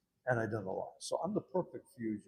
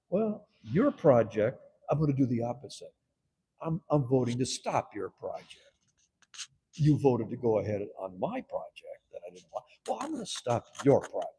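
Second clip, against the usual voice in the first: defiant retaliation; 6 dB louder than usual. Retold or imitated. His retaliation speech, acted.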